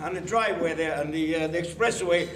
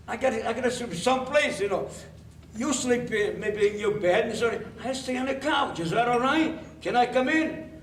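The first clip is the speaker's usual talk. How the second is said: higher-pitched coaxing plea; eager, wheedling higher voice; pleading; 5 semitones higher than usual. Acted. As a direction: plead your way into the room. Pleading for a place to sleep.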